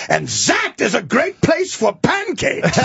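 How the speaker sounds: slow, bright switch to cheer, laughing; a hint of sudden tour-guide cheer; cheery guide. Tour guide to tourists, cheerful and slow. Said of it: "he gets up with a big smile".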